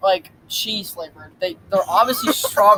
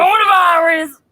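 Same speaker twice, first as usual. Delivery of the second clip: loud comic yell; shout; 5 semitones higher, 5 dB louder than usual. Acted. Shouted joke.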